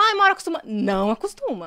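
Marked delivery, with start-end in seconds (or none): 0.0-0.6 mocking quote. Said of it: "todo mundo fala".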